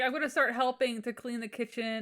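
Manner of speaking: puffed-up husband listing chores, only half in earnest; mock boastful promise. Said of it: "He's like".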